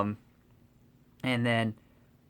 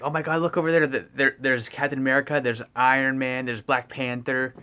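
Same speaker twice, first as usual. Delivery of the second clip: excited fanboy; 4 dB louder than usual. Retold or imitated. Peter excitedly spotting the Avengers.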